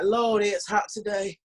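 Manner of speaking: slow, drawn-out Southern drawl; Savannah Southern. Acted. Entertainer playing up to Portlanders, exaggerated Savannah Southern. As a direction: lay the Southern accent on thick and slow. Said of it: "Savannah Southern".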